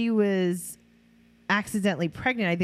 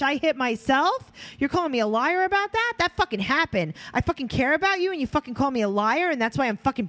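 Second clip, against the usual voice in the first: higher, heated mock tirade; Farrah's rant; 6 semitones higher than usual. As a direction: throw a furious fit at your mother. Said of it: "That was Farrah talking to Deb".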